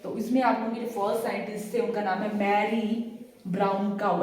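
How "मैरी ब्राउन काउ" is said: Mary said slowly as brown cow; teacher spells out मैरी ब्राउन काउ as a memory trick; mnemonic reading. Shown as a demonstration. Teacher drills the class on the name, slow demo. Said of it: "ऐसे पढ़ना आप लोगों को".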